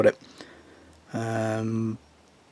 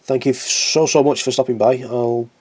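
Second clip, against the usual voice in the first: talking with no teeth in; words mushy, teeth out; without dentures; 7 dB louder than usual. Real, not acted. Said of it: "get my words out properly in a minute and put my teeth in".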